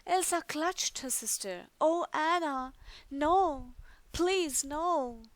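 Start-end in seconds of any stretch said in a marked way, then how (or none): 1.8-5.2 high, loud, pleading cry; anguished plea. Acted. Elsa clutching her frozen sister, crying out in grief. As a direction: beg her not to be gone.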